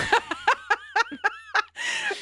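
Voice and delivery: shrieking burst of laughter; high squealing laugh. Real, not acted. Big laugh after fight joke.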